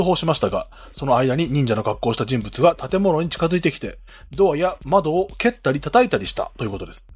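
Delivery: measured news reading. Acted. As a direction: read it like a bulletin. Reads news article aloud.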